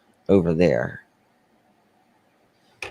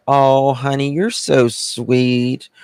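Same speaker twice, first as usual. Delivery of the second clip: slightly higher, drawn-out Southern affection; acted honeyed Southern kindness; Southern sweetness; 4 semitones higher, slower than usual. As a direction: gush mildly, stretching out the praise. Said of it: "And in the South, "Bless your heart" means".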